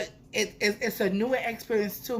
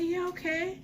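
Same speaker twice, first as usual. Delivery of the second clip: nervous yes; 12 semitones higher, 3 dB quieter than usual. Retold or imitated. Agreeing to the waxer nervously.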